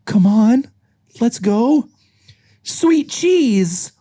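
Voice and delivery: high, urgent character voice; anxious Judy. Acted. Acting Judy awaiting test result.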